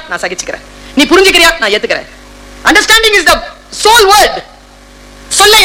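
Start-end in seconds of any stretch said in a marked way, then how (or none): 0.1-0.6 soft, low resigned reply; a quiet, low wife giving in; meek wife. Acted. Wife's reply acted, much softer. 1.6-2.1 meek wife. Acted. Wife's reply acted.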